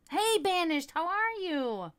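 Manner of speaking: loud, high sing-out hello; big drawn-out welcome; excited greeting. Real, not acted. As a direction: call out brightly to a friend just arriving. Calling out greeting to arriving viewer.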